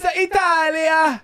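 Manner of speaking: a slow, hammed-up Italian accent on Italia; mock Italian accent. Joking about an Italian name, a slow mock Italian accent. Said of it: "I can do an Italian accent".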